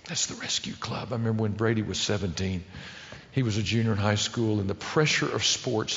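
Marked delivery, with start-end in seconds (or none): 0.1-1.1 near-whispered, much softer; hushed punchline. Real, not acted. Preacher to the men after the story, whispered. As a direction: drop to a breath for the point.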